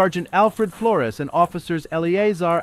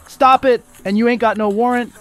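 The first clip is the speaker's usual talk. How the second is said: loud, raised quoted shout; 4 semitones higher, 6 dB louder than usual. A narrator's reading. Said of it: "as Perez shouts".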